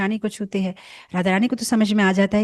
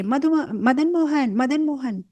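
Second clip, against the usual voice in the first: slow, high drawn-out call across a distance; calling from afar; 5 semitones higher, slower than usual. Acted. Gopi calling out to Krishna from far away, drawn-out call. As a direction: draw the name out to reach someone far off.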